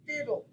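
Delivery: fiddle with FID stressed; stress on first syllable. Shown as a demonstration. Teacher showing syllable stress, FID-dle. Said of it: "accent the first syllable".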